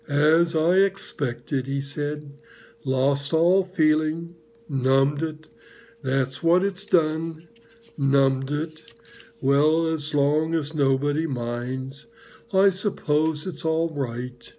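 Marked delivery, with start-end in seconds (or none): 0.1-1.7 slow, lightly voiced gloomy donkey; gloomy Eeyore. Eeyore grumbling about his cold tail, slow and glum. 2.8-14.5 slow, lightly voiced gloomy donkey; gloomy Eeyore. Eeyore grumbling about his cold tail, slow and glum.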